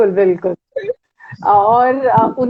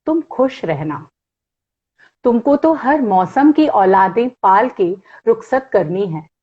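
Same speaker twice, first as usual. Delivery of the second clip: lightly measured poetry reading; poem recitation. Acted. Reads Gulzar poem aloud.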